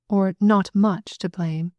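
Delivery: "not much" slowly drawn out with special weight; stress on "not much". A narrator's reading. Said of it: "with a special accent on the word".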